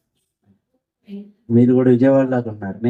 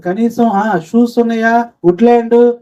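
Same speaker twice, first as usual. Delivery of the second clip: scornful question; 11 semitones higher, 4 dB louder than usual. Retold or imitated. Church people scorn poor man.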